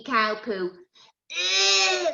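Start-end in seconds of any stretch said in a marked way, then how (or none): 1.3-2.1 high squeal of disgust; childish yuck. Acted. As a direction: pull a face at the smell. Children see cow poo.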